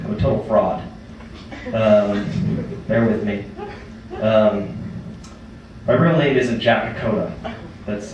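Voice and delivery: low, quiet, halting stage confession; sheepish confession. Pretend. Comic confesses to the audience he's a fraud, sheepish and halting. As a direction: hesitate and drop the voice, as if owning up.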